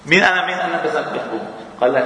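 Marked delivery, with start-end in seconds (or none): 0.0-0.8 a mock "guess who" call; playful guessing game. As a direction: tease a friend from behind, pitched up. كيف بيفزع هذا عنده؟.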